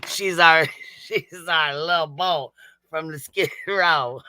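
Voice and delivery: mocking fake accent broken by laughter; Betty. Streamer mimicking a rival for chat, giggly mock accent. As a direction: draw out the put-on accent while cracking up. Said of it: "gotta get our Betty accent on".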